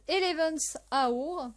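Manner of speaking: English title in a real French accent. Real, not acted. Vlogger announcing the next series title, French-accented English. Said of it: "désolée de mon accent anglais".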